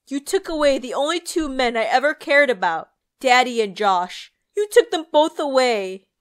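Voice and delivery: loud, high, repeated screaming accusation; raging sister screaming down at Emily in the grave; furious shrieking. Acted. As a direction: hammer each line like a blow. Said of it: "Nancy shrieked".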